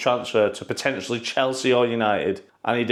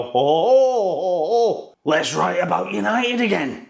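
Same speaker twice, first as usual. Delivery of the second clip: tripping reporters; 6 semitones higher, slower than usual. Retold or imitated. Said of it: "all the reporters take acid and go".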